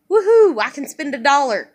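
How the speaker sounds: sarcastic woohoo. Real, not acted. Sarcastic celebration.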